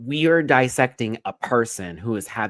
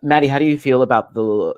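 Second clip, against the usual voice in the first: loud call; 9 dB louder than usual. Real, not acted. Calling out loudly.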